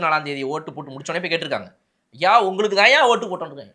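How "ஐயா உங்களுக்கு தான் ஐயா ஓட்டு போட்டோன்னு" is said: high, loud humble assurance; pleading voter. Retold or imitated. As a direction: beg him to believe, loud and high. Voters assure leader of vote.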